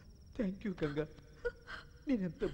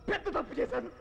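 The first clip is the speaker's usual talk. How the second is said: laughing through tears; 3 semitones higher than usual. Acted. Breaking down confessing.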